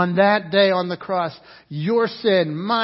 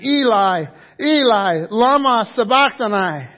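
raised, anguished call; loud cry; 2 semitones higher, 6 dB louder than usual. Acted. Jesus on the cross calling to God, loud cry. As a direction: cry it out across the room. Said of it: "Jesus cried out in a loud voice".

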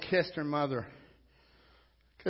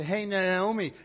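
lightly acted louder greeting call; 4 semitones higher, 5 dB louder, slower than usual. Townspeople hailing Naomi as she returns, calling out. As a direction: call out a hail, pitched up.

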